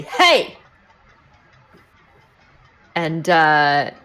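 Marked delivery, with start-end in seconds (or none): 0.0-0.6 sharp, high-pitched call of "Hey"; abrupt challenging shout, not truly deep; man calling out. Acted. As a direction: call out to stop someone from behind. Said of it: "a deep male voice say".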